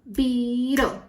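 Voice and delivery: "Beetle" stretched into two distinct beats; syllable by syllable. Shown as a demonstration. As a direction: sound out both syllables of "Beetle". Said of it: "Two syllables".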